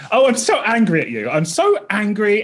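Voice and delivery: high-pitched, unconvincing anger; mock angry. Shown as a demonstration. Comedian showing which voice is not his telling-off one, mock angry squeal. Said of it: "this again is not the voice".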